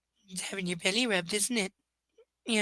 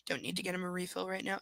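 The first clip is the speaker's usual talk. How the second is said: softer whispered aside; 8 dB quieter, faster than usual. Real, not acted. Whispering about the water bowl. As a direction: murmur it under your breath.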